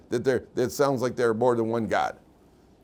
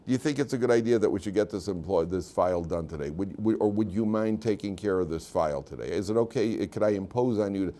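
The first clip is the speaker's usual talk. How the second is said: softer, politely asking boss; humble request; 5 semitones lower, 4 dB quieter than usual. Shown as a demonstration. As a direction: ask gently, like a humble boss. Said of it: "talk in a more humble way".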